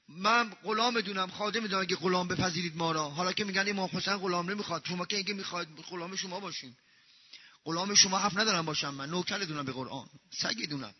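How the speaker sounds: low, soft voice sinking away; humble devotion. Real, not acted. Humble self-abasing devotion, sinking voice. (آرام و فروتنانه)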